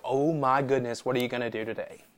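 soft, expectant wonder; wake-up wonder, said softly; hushed wonder. Acted. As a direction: trail down softly in quiet anticipation. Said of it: "wake up in the morning and go".

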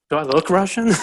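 high, loud mock disbelief; incredulous retort. Telling a Russian stranger at the fights, mock incredulous. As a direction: scoff as if the idea is absurd.

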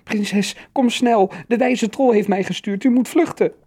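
put-on high, urgent child's call; anxious high-pitched cry; nervous young troll. A narrator's reading. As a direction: urge escape in a squeaky, nervous troll voice. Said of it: "De jonge trol riep nerveus".

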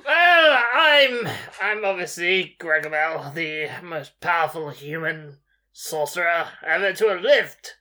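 lightly voiced boastful sorcerer; a hint of a grand wizard bragging. Player as sorcerer Gregomel bragging to the giant, lightly voiced.

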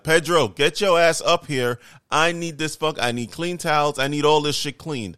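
angry retold rant at hotel staff; pissed off. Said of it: "I was pissed".

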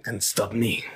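light put-on Spanish accent; Spanish Jason Statham. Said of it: "Spanish Jason Statham".

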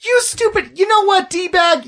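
mock dwarf rant. Dwarf ranting at elves.

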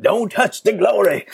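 put-on Southern accent. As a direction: ham it up like a Southern preacher. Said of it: "if I say it with a Southern accent".

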